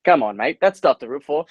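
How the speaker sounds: mock Kiwi-accent heckle, not shouted; lightly put-on Kiwi accent. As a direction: imitate a Kiwi teammate chirping. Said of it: "he's a Kiwi dude, and he just goes".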